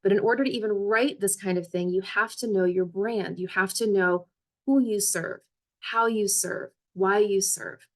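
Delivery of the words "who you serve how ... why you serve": who you serve, how you serve, why you serve with each serve leaned on, a falling end on each phrase; stress on serve. Shown as a demonstration. Coach telling job seekers what matters, serve stressed each time. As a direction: lean into every serve, like a rhythmic list. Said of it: "Notice I'm emphasizing, emphasizing the word service".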